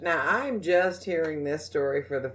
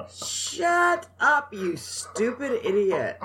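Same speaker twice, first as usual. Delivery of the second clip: mock scolding; 7 semitones higher, slower than usual. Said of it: "mock scolding co-host".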